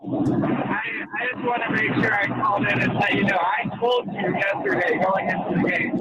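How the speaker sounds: windy car phone line; wind tunnel. Real, not acted. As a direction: caller drowned in road wind. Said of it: "it sounds like you're in a wind tunnel".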